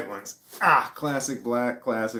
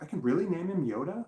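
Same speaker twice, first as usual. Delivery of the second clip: excited disbelief; 7 semitones higher than usual. Retold or imitated. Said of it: "She's like".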